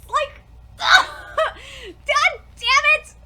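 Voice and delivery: slow, high laughing groan; laughing exasperation. Real, not acted. Fan annoyed at swapped lines, laughing groan. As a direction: laugh it out in despair.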